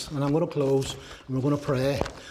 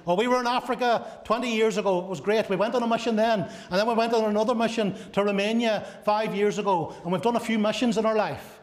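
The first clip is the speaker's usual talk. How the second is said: mock reminiscing; 5 semitones higher than usual. You look back and.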